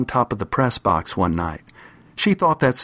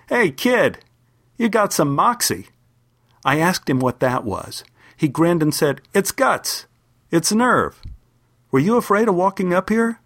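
higher, lightly voiced amused player; amused big man; 5 semitones higher than usual. Football player grins at the brave kid, lightly amused. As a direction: tease the kid with a grin in the voice.

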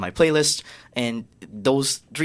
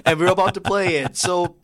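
excited shout-out; 6 semitones higher than usual. Real, not acted. Shout-out to her favourite artists.

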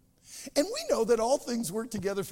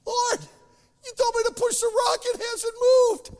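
frustrated plea; 7 dB louder than usual. Acted. Guy complains the rock won't move.

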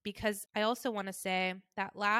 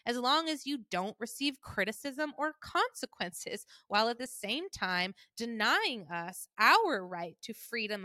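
mom's tone. Retold or imitated. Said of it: "this is how she talks".

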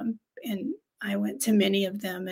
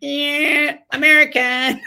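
mock scorn; 5 semitones higher, 7 dB louder, slower than usual. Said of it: "It was like".

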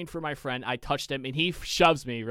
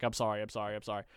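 soft, lower repeated apology; meek apology; 5 semitones lower, 6 dB quieter, much faster than usual. Retold or imitated. Apologizing to the league organizer, meek and soft. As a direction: sheepishly say sorry to the organizer.

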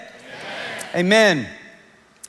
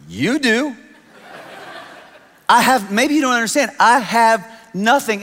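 laughing protest; 6 semitones higher than usual. Retold or imitated. Retold protest to pastor's wife.

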